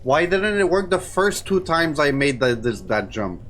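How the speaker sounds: high, loud frustrated outburst; exasperated complaint. Real, not acted. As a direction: protest loudly at the unfair game. Frustrated after failed jumps.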